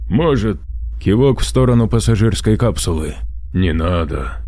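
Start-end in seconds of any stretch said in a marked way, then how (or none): 0.1-0.6 muffled by a mask. Acted. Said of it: "Голос через маску доносился приглушённо". 3.5-4.4 muffled by a mask. Acted. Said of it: "Голос через маску доносился приглушённо".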